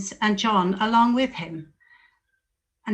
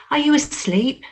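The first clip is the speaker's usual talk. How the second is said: higher, louder, incredulous scolding; reproachful rebuke; 7 semitones higher, 4 dB louder than usual. Acted. Jesus scolding Peter for sleeping, loud and reproachful. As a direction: wake him with a disappointed rebuke.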